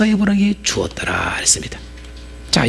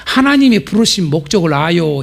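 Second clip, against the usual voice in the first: slow. Shown as a demonstration. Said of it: "옆 사람한테".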